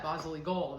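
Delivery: "basilico" said the Italian way, ba-ZEE-lee-ko; family word. Shown as a demonstration. Host recalling her childhood kitchen word "basilico", Italian style. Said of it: "That's how we said it in our house".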